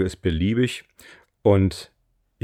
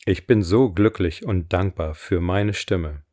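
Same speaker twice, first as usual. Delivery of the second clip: slow, deliberate affirmation voice; affirmation reading; slower than usual. Acted. Coach reads her voice affirmations for listeners to repeat, slow affirmation reading. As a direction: read each line with weight and pauses.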